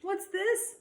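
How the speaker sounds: surprised Mom. Acted. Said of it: "asked Mom".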